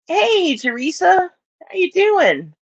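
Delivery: high, drawn-out singsong hello; sing-song greeting. Real, not acted. Greeting Teresa in chat with a high singsong hello.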